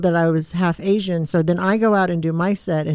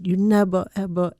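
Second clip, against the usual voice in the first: Thai mom impression. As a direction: imitate a Thai mom, dragging out each ever. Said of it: "And she said".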